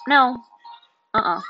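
loud flat refusal; firm no. Real, not acted. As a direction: shut it down hard. Emphatic refusal.

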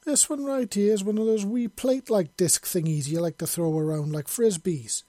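heated Scottish soldier pointing at his wounds; angry showing scars. A narrator's reading. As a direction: jab at each scar as he names it. Shows scars, angry Scottish rant.

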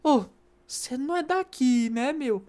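questioning locals. Retold or imitated. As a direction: mimic someone calling out an outsider. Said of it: "os caras falam".

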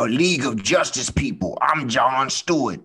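hammy hero voice. Pretend. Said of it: "do you hear the acting coming out".

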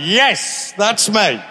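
re-enacted high, emphatic admission; acted-out reply. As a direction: answer the heckler high and loud. Acts out his reply to heckler.

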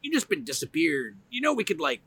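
high mocking boss voice; boss quote. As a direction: play the boss, pitched high and amused. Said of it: "And he's like".

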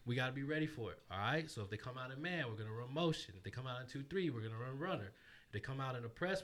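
upbeat huddle speech to the team; rally the boys before tipoff, lightly voiced; coach pep talk. Shown as a demonstration. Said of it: "let us hear a snippet of your pregame speech".

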